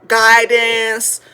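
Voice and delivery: usual speaking voice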